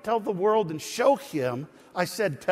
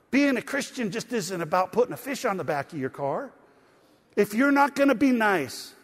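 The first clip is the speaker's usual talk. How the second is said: yelling; 4 semitones higher than usual. Retold or imitated. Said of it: "I feel like I'm yelling at you".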